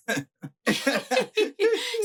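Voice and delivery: high-pitched burst of giggles; high laugh. Real, not acted. Laughing at the private jet boast.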